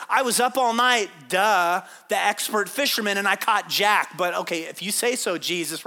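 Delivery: grumbling fisherman with attitude, lightly acted; mock bad attitude. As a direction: give Jesus a bit of attitude. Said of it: "gave him an attitude".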